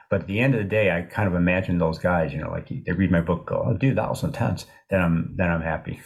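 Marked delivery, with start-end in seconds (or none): 3.7-4.6 mild laid-back Colorado skier voice; a hint of a Colorado accent. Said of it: "this Colorado accent".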